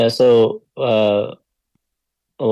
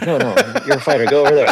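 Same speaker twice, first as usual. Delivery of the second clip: brisk, raised order to move; quick higher push-off command; coach ordering; 5 semitones higher, 6 dB louder, faster than usual. Retold or imitated. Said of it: "He's like".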